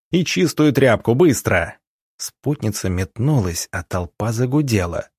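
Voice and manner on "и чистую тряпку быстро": barked order. Acted. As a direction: bark it out, urgent. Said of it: "рявкнул он".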